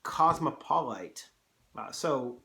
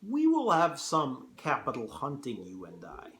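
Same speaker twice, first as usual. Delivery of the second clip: General Zaroff; 4 dB louder than usual. Acted. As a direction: attempt a Russian accent. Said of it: "hard to do a Russian accent".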